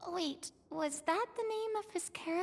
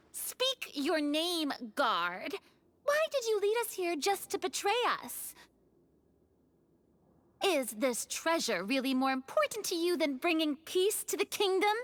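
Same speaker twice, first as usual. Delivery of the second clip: in character. Acted. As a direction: confront the traitor guard formally. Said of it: "I should stay in character".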